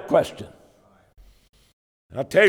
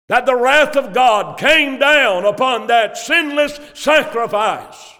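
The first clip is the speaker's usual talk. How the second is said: raised, ringing proclamation; preaching shout; 4 semitones higher than usual. Real, not acted. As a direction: call it out over the congregation. Preacher proclaims God's wrath.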